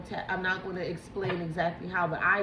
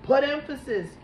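loud, raised-pitch order; insistent quoted command; 6 semitones higher, 8 dB louder than usual. Retold or imitated. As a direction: call it out forcefully, as a relayed command. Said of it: "And they keep saying".

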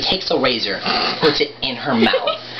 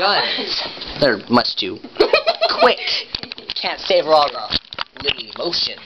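Joker. Acted. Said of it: "do your, uh, Joker impression".

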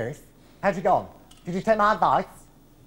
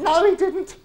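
squeaky denial; 13 semitones higher than usual. Acted. High falsetto correction.

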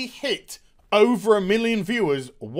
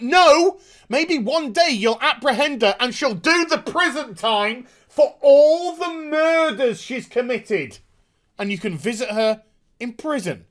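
mock retort; 5 semitones higher than usual. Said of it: "And I'm like".

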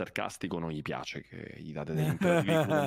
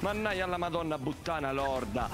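imprecazione esplosiva all'italiana; 3 semitones higher than usual. Real, not acted. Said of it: "Cosa? Scusa, non ho capito".

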